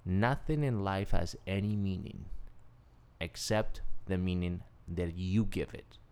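calm, measured delivery; quoting the mentor. Retold or imitated. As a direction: pass on the lesson steadily. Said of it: "He says this".

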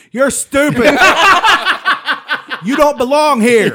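high loud mocking voice; mocking hair talk. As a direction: scold the hair playfully. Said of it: "I was like".

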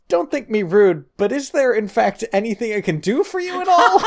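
high, overly courteous British politeness; polite British butler. Retold or imitated. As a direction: play it as a very proper Englishman. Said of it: "and says".

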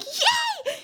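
high, jubilant little yell; mock screamed cheer. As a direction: imitate a top-of-the-lungs cheer, held back. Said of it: "I'm screaming at the top of my lungs".

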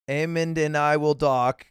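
slow, deliberate delivery; slowed right down; dragging. Pretend. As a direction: drag the line out word by word. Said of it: "you're dragging now".

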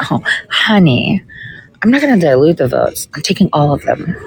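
sassy comeback. Retold or imitated. Telling the Ohio GOP guy she takes every vote, sassy. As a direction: talk down sweetly, then land it. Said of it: "I literally said it like that".

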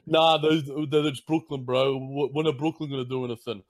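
lightly voiced know-nothing hometown fan scoffing; mock bro fan. Mocking dismissive Barstool fans.

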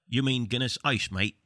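lightly attempted London barman accent; bad British accent. London barman queries the Guinness order, bad British accent. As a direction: imitate a Brit, badly and without much force. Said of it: "apologies for the bad accent".

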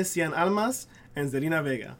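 "Cien Almas" with Spanish vowels, "Zelina Vega" said the Spanish way; Spanish accent. Shown as a demonstration. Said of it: "There you go".

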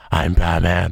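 Batman voice. Pretend. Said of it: "I also kinda sound like Batman".

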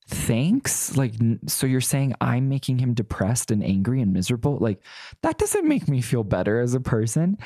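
mildly indignant mock thanks, lifted at the start; lightly haughty, sarcastic comeback; haughty retort. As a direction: retell it with a touch of haughty disbelief. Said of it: "pretty haughtily".

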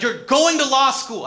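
dad's voice pushed high and loud, slowed; mock angry dad. Father yelling at his son about law school, loud. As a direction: bellow it like a fed-up father.

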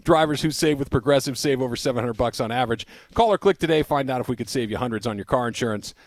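brisk sponsor read, trailing down at the end; practiced radio spot delivery. Acted. Reads a sponsor ad.

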